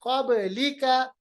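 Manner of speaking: slow कबलिका with bounced b; qalqalah. Shown as a demonstration. Teacher repeats the word, कबलिका with springing b. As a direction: echo the b inside कबलिका. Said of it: "कब नहीं पढ़ेंगे".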